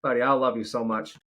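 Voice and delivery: high, tender dad voice, quick at times; talking to his son. Real, not acted. Father tells his son he must finish the show, tenderly.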